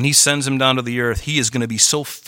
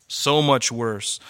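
slow grave echo; 3 semitones lower, much slower than usual. Real, not acted. Echoed warning.

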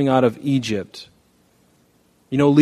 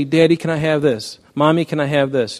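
put-on begging child; 4 semitones higher than usual. Preacher voices begging child.

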